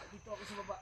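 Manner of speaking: barely voiced hiding whisper; whispering while hiding. Real, not acted. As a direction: whisper so the enemy can't hear. Hiding from gunfire.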